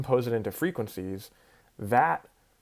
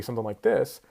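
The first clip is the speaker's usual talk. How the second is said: higher pitch. Shown as a demonstration. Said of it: "If I do a higher pitched frequency".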